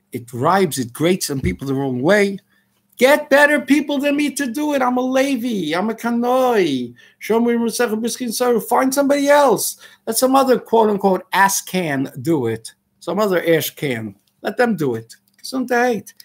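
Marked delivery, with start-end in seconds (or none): 3.0-12.7 raised, pitch up, exasperated; a tense rant at those who ask him; frustrated outburst. Real, not acted. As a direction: push it away, fed up. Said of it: "You see, I'm a little tense".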